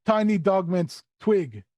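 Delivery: slow, drawn-out creature voice; Skitch, simple creature. Acted. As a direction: announce it in stretched broken speech.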